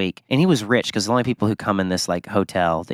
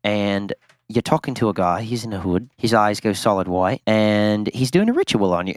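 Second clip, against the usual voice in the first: imitated British hypnotist; British accent. Host retells a hypnosis recording to co-hosts, British accent. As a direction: narrate the trance in a British accent. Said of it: "he was, like, this British guy".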